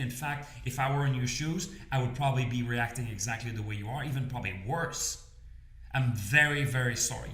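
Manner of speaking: calm the angry customer with a gentle sorry; a soft, sincere apology, head tilted down; soft apologetic reassurance. Shown as a demonstration. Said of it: "move your head just down a little bit like this".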